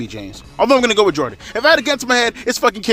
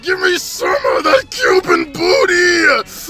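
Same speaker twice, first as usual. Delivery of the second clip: hammed-up shouting; 14 semitones higher, slower than usual. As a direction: holler like a rowdy fan. Jokingly cheering at a dancing wrestler.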